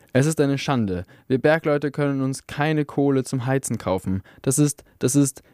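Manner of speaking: lightly voiced miner orator, indignant; rally fellow miners, bitter and rising; a hint of an angry workers' speaker; rousing union speech.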